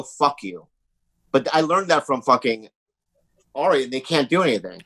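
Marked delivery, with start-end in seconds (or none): 0.0-0.7 defiant retort. Retold or imitated. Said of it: "But now I go".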